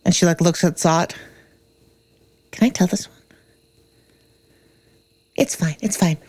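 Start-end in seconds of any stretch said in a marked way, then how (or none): 2.5-3.2 whispered aside to a friend; whispering. Real, not acted. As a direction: ask it under your breath. Asks Zot again, whispered.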